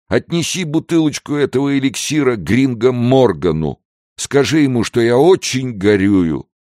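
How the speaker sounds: put-on high-pitched, maudlin drunk lament; tearful drunken wailing. A narrator's reading. Drunk Pedro sobs on Ignacio's shoulder, tearful wailing. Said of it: "Слёзы брызнули у него из глаз".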